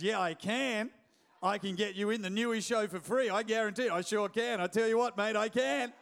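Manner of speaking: eager, building yobbo Australian insistence; insistent boasting. Retold or imitated. Friend swearing he can get free tickets, building insistence. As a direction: insist harder with each phrase, mock-earnest.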